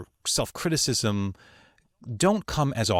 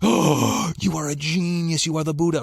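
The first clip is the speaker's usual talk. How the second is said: drawn-out gasp into slow reverent praise; marvel, as if before a master; retold awe; 3 semitones higher than usual. Retold awe at colleague's genius.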